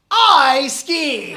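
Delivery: high, loud bragging declaration; boastful shout. Retold or imitated. Comic reveals the posh snob's real meaning with a loud boastful cry. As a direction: brag it like a trophy. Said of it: "What they're really saying is".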